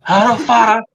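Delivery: hammed-up accent meant as Italian; mock Italian-sounding accent. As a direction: lay on a comic Italian-style accent. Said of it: "so Italian".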